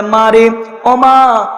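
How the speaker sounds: slow, drawn-out loving call; tender calling. Acted. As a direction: stretch it out like a fond father. Father-in-law calls tenderly.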